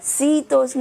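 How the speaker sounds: "शीतोष्ण" wrongly with s in place of sh; स वाला ग़लत उच्चारण. Shown as a demonstration. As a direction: say "शीतोष्ण" as see-tos-na. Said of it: "शीतोष्ण नहीं". ("शीतोष्ण" में श की जगह स की ध्वनि)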